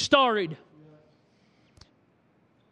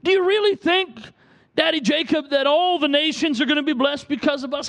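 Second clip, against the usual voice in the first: sheepish pride; 2 semitones higher than usual. Retold or imitated. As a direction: ask shyly like a small child. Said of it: "in his little sheepish voice".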